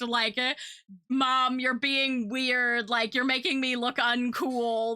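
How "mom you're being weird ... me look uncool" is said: put-on embarrassed kid. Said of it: "that was kind of the vibe".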